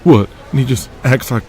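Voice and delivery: brash wrestler voice. Acted. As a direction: rib him like a cocky young wrestler. Wrestler ranting about Pat.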